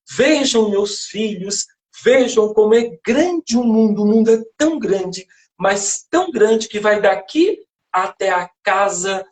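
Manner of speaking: a touch of wonder, addressing her ducklings; mother duck showing off the world, lightly acted. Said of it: "a mamãe pata, quando vai mostrar o mundo".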